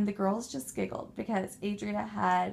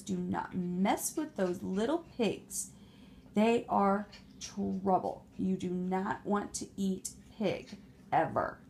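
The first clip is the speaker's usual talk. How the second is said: defeated wolf; 3 semitones lower than usual. Acted. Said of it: "big bad wolf ... told".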